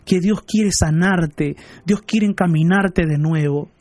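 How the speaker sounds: slow earnest blessing. Real, not acted. Pastor blesses abuse victims.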